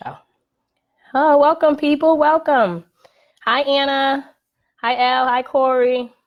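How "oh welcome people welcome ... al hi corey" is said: high-pitched, excited welcome; excited greeting. Real, not acted. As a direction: greet newcomers in a high sing-out voice. Livestream host greeting arriving viewers.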